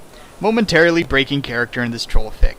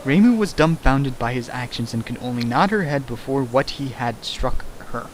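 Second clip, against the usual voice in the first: softer, careful second reading; puzzled reread; 2 semitones lower, 5 dB quieter than usual. Shown as a demonstration. Reader rechecking the garbled sentence, softer. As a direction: reread it quietly to make sense of it. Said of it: "Wait, what?".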